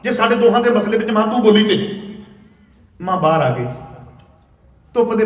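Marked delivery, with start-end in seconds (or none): 0.0-2.0 higher, louder retold snap at his mother; a son retold lashing out in anger; angry son. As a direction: warn her off, heated. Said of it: "ਉਹ ਬੱਚਾ ਗੁੱਸੇ ਵਿੱਚ ਸੀ".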